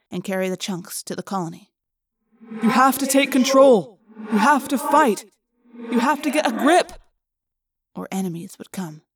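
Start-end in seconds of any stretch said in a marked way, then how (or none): 2.6-6.9 urgent shouting. Acted. Urging friend to fight morph.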